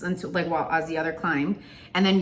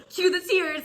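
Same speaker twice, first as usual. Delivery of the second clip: scheming aside; 10 semitones higher than usual. Retold or imitated. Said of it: "And so I start crying".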